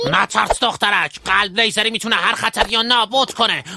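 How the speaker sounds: a lightly hammed-up heroic boast to the girl; overblown hero speech. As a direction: puff up like a comic hero. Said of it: "خب، یکم جوگیر شدم".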